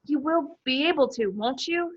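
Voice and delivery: desperate. Acted. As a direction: beg for reassurance. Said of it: "said Harry desperately".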